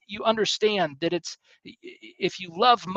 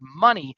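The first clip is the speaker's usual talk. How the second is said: money punched louder; stress on money; 5 dB louder than usual. Shown as a demonstration. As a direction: lean on the word money as the usual reading. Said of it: "put the emphasis here on the word".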